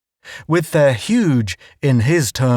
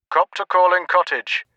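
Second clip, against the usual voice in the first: radio voice; 6 semitones higher than usual. A narrator's reading. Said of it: "the radio chose to announce".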